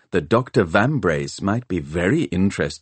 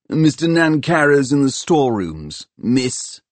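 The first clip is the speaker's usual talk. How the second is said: put-on sulky, higher young lad's voice, grudging; sullen apprentice; 6 semitones higher, 3 dB louder than usual. A narrator's reading. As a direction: answer like a put-upon boy who'd rather not help. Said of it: "he told her sullenly".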